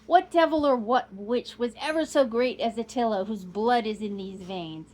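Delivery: a hint of a proud old nobleman; proud old Count. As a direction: boast of the bloodline with pride. Count's proud speech voiced.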